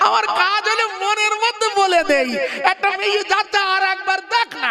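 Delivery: high, wheedling tempter's voice; tempting sing-song. Acted. Satan tempting a man to look again, high and wheedling. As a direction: coax him like a whisper in the heart. Satan describes his whispering.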